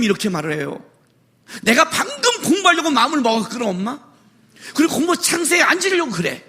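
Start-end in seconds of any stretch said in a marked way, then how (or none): 1.6-6.4 put-on higher, sulky child making excuses; whiny excuse. Child making excuses to his mother, higher and sulky. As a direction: whine your excuse at mom. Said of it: "이렇게 말해, 핑계를".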